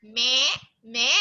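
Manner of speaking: light imitated goat "meh"; goat bleat. Shown as a demonstration. Teacher contrasting goat with sheep, bleating. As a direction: bleat two separate mehs. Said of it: "while the goat says".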